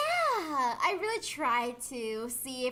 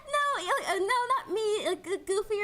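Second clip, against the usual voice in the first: high, laughing flustered denial; mock flustered denial; 8 semitones higher than usual. Friend acting how the girl should have reacted, high flustered squeal. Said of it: "It wasn't like".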